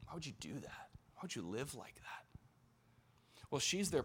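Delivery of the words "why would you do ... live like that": sharp criticism. Retold or imitated. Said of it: "They criticized her sharply".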